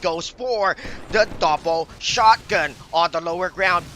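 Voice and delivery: quick, driving esports casting; live play-by-play. Acted. Caster calling a Dota teamfight for viewers, fast play-by-play. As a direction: keep calling the action as it happens.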